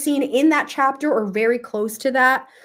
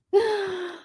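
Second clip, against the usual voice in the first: emotional sigh; 12 semitones higher than usual. Real, not acted. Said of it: "I'm emotional".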